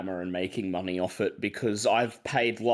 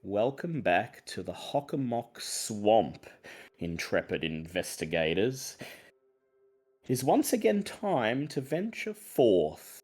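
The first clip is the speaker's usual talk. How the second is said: slow, theatrical storyteller with wide pitch swings; deliberate, dramatic pauses between phrases; game master's scene setting; 3 semitones higher than usual. Acted. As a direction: summon the investigators back into the tale.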